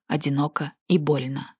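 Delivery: usual speaking voice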